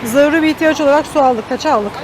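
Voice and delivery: talking around a candy in the mouth; candy in mouth while talking; sucking a hard candy. Real, not acted. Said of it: "Ağzımda şeker var kusura bakmayın".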